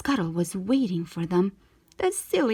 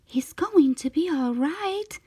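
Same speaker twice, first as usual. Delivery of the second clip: grateful; 6 semitones higher than usual. A narrator's reading. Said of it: "Ariel said gratefully".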